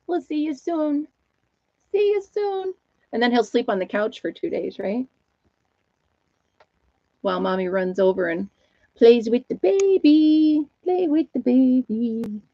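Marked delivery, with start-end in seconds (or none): 0.1-2.7 sing-song farewell. Acted. Saying see you soon, high sing-song. 8.9-12.4 slow, high cooing lilt; baby talk. Acted. Mommy running over to play, slow baby talk.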